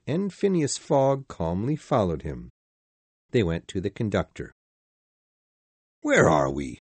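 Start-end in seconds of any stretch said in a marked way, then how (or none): 6.0-6.8 stern general voice. Acted. Sir Francis asks the conductor.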